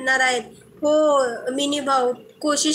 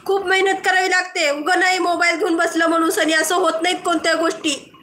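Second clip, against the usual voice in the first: higher-pitched indignant rant; real exasperation in a raised pitch; worked-up, irritated; 4 semitones higher than usual. Real, not acted. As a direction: argue your case heatedly without shouting. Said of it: "तुम्ही फार रागीट आहात".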